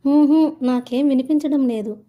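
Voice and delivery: high, loud "can't hear you"; shouted denial. A narrator's reading. Anuradha insisting she hears nothing, shouting. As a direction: call out over a bad connection.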